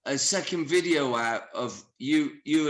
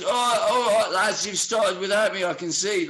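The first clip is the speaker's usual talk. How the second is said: loud, higher jovial greeting; cheery mate arriving; 4 semitones higher, 5 dB louder than usual. Retold or imitated. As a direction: hail the lads as you walk in.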